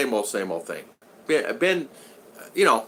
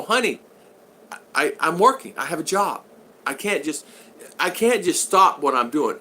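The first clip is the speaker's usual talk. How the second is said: higher-pitched pleading self-defence; retold exasperated protest; 4 semitones higher than usual. Husband arguing over unanswered messages, mildly exasperated protest. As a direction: plead your case, pitched up.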